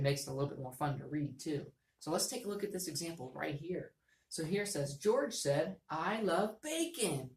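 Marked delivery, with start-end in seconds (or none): 5.0-7.3 happy voice. Shown as a demonstration. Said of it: "so I can make my voice go up".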